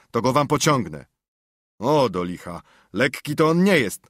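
put-on jovial old Welshman, loud; hearty old man. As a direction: welcome the boys heartily.

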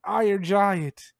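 mild, stretched-out mock yell; retold giant screams. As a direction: imitate giants calling out slowly, without full force. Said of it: "the giants are screaming at him".

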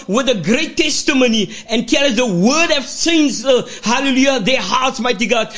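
fervent church prayer, rhythmic and pleading; praying aloud. Acted. Pastor praying over the word before preaching, fervent prayer. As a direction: pray over the congregation with steady fervour.

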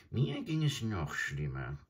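high, croaking bird voice; a scornful old stork sneering; adjutant bird. Acted. Adjutant tops the jackal.

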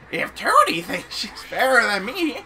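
a hint of a scheming villain; lightly voiced villain. Player voicing the game's villain, lightly villainous.

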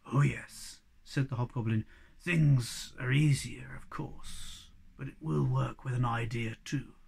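low and grand, like a kindly wizard; low hobgoblin voice. Acted. Hobgoblin explaining, hushed.

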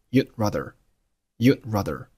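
"you'd rather" with the d of "you'd" held, unreleased; swallowed final d. Shown as a demonstration. Teacher showing lost plosion to learners, swallowed d in "you'd". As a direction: hold the tongue on d in "you'd", then straight into "rather". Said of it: "但是把声音给吞进去".

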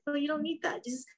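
a light, tender nudge instead of saying stop; even gentler. Shown as a demonstration. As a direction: coax the thought away sweetly. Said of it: "Not say stop, but, like".

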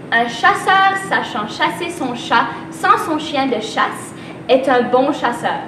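slow, careful tongue twister. Shown as a demonstration. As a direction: spell out every sound slowly. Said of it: "Là, le dernier".

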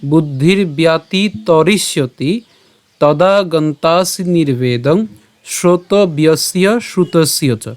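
slow, measured shloka recitation; Sanskrit verse recitation. Shown as a demonstration. Teacher presenting the Gita verse to a class, slow Sanskrit recitation. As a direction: draw out the long vowels, syllable by syllable. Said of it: "শুদ্ধ সংস্কৃত উচ্চারণ".

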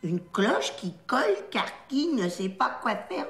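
slow drill, hard clean K in "qui colle, car qui"; careful crisp K. Acted. Trainee repeating after correction, slow careful K in "qui colle, car qui". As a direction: place each K of "cloche qui colle" sharply and slowly. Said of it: "fais des vrais que, net".

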